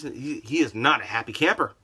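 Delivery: ordinary talk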